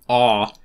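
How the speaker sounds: "ah" as an open, drawn-out English vowel. Shown as a demonstration. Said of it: "in the word authentic".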